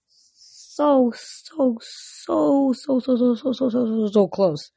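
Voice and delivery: high squeaky start, gradually coming down; giddy emphasis. Real, not acted. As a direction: repeat it eagerly, sliding down to normal. Excited about nearing download milestone.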